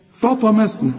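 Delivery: "فطمسنا" with thin vowels, only ط heavy; correct light letters. Shown as a demonstration. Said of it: "تقولها زي ما انا بقولها".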